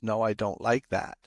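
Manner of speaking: calm, matter-of-fact objection. Retold or imitated. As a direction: say it calmly and evenly. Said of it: "even just that calmly".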